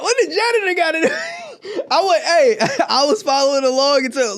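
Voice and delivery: talking through real laughter; laughing confusion. Real, not acted. Listener lost at the janitor's part in the story, laughing. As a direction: laugh while trying to follow along.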